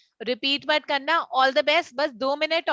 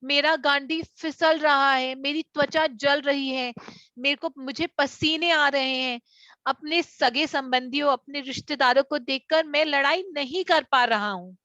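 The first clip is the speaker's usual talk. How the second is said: slow dramatic Arjuna recital; slower than usual. Shown as a demonstration. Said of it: "आप बोल सकते हैं".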